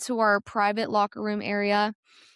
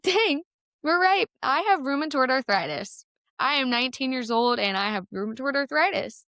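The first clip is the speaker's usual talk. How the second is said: high, laughing exclamation; amused disbelief; 4 semitones higher than usual. Retold or imitated. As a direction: laugh at the absurdity. Joking disbelief after laughter.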